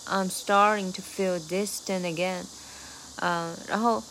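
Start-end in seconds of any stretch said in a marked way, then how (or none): 0.1-2.4 slow, "starting to" fused into one word; slow rhythm demo. Shown as a demonstration. Teacher slowly models the lyric rhythm. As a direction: spell out the rap rhythm slowly. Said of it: "结合成一个词一样".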